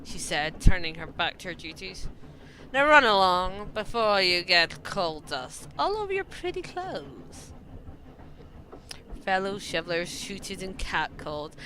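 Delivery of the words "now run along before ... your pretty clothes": posh voice. Acted. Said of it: "you asked for posh".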